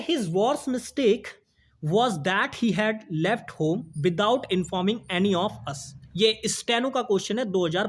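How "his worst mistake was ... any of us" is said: very slow, word by word reading; slow dictation. Shown as a demonstration. Teacher reading the steno question aloud, very slow. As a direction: read the sentence slowly for the class. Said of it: "कह रहे".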